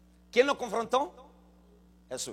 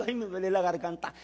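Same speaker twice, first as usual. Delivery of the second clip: mock whining; 2 semitones lower, 4 dB quieter than usual. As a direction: mimic a tearful moan half-heartedly. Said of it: "Me andan los hermanos llorando".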